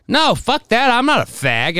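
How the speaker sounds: high, loud mock outrage; mock offended yell. The dude tells him off, mock yell. Retold angry reply from a dude.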